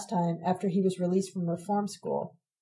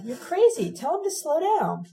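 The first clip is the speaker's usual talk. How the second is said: frightened shout; 8 semitones higher than usual. A narrator's reading. Narrator begs Sabina to stop Ron, shouting. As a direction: shout over the noise, scared. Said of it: "I shouted to Sabina".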